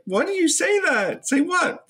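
hammed-up high voice; high mock Jennifer. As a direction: squeak it out like the offended woman. Jennifer and Tiffany phone exchange.

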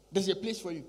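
ordinary delivery

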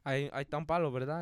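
soft, low, halting Spanish instructions; Don Verna. Retold or imitated. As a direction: imitate a coworker rambling quietly, checking with verdad. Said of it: "And he'd be like".

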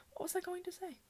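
soft, whispery aside; real under-the-breath wondering; muttering to herself. Real, not acted. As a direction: whisper it to yourself, thread lost. Asks herself, losing her thread.

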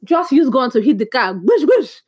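ordinary talk, nothing marked

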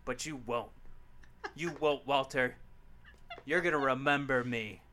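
quiet, low threat; menacing promo close. Pretend. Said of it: "Mic drop".

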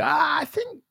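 mock the clueless surprised public; incredulous people. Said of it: "People are like".

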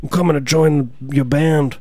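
Trump impression slipping into a singer's lilt; a famous singer. Comic threatening to join the band, muddled impression of a singer. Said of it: "John Lennon?".

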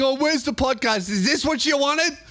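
teasing high-pitched fan voice; mock whiny fans. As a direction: send up the complainers while laughing. Mocking complaining fans, laughing.

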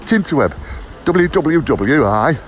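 put-on a light, playful northern English accent. Vlogger pointing viewers to his website in a mock northern accent. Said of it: "I don't know why I've gone all northern".

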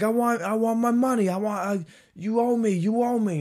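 high, loud, frantic mock demand; imitated crazy screaming. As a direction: yell like a raving man after his money. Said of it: "he's screaming just crazy shit".

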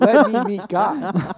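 slow, loud, drawn-out plea; mock-solemn plea. Retelling his readiness for the pastor, hammed-up slow plea. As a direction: ham up a big spiritual surrender.

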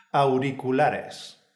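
"Auriculares" very slow, with "Au" as one syllable; model pronunciation. Shown as a demonstration. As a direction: slowly model "Auriculares" with single-tap Rs. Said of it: "La forma correcta de decirlo es".

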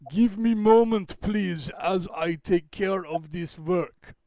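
slow, deliberate mock Russian accent; quasi-Russian accent. Host stalling viewers while fixing the capture, in slow quasi-Russian accent. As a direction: put on a rough Russian accent, word by word. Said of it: "that's my quasi-Russian".

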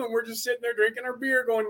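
usual speaking voice

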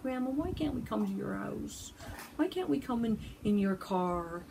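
grandkids asking. Retold or imitated. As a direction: lightly play the grandkids begging to come in. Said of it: "they'll be like".

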